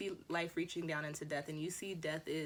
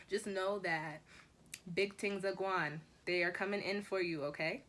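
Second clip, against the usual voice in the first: A rapper impression. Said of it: "that was y'all's Drake".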